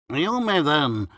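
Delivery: high, loud, pompous doctor; slow and solemn. A narrator's reading. Doctor rising gravely to advise, slow and solemn. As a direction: grant it grandly, with great gravity. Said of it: "slowly and solemnly given".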